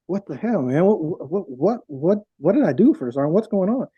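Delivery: stammering, swooping pitch in mock bewilderment; imitated flustered what-did-I-do; retold baffled protest. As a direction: protest your innocence, lightly acted. Retold confronting the first sergeant.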